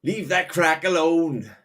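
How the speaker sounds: high, slow put-on voice; a hammed-up caricature calling out; mock voice. Mocking Freedom in a put-on high voice.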